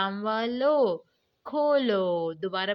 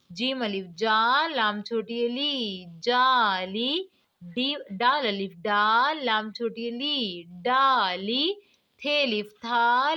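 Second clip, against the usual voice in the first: spelling drill. Shown as a demonstration. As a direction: chant each letter, then stretch the whole word for the class. Teacher spells and blends syllables.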